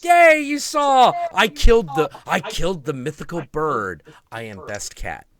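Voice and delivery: high, loud, gleeful boasting; proud cat voice. Retold or imitated. Cat boasting to its owner about the kill, high and gleeful. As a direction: brag like a proud little hunter. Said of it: "And he's like".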